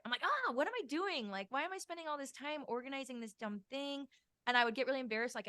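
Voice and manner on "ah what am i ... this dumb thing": acted-out guilty exasperation, pitched up; mock-dismayed, high-pitched self-talk; guilty self-scolding. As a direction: replay scolding yourself, voice jumping high. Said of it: "I would just feel really guilty for it".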